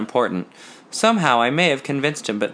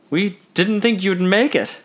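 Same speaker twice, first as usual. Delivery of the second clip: raised, louder jovial greeting; jovial announcement; 8 semitones higher, 3 dB louder than usual. A narrator's reading. Evan welcoming Bert late to the tailor, jovially. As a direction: greet him brightly, pleased he came. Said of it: "he announced jovially".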